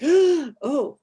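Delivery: high, loud tug of sympathy; acted high "oh" of concern; concerned reaction. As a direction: react as if pulled by crying. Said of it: "crying really pulls".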